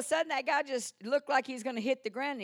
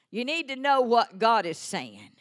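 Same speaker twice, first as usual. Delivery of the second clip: louder emphatic preaching, KNOW pushed; louder repeat; 10 dB louder than usual. Shown as a demonstration. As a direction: drive it home with force. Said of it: "repeated louder".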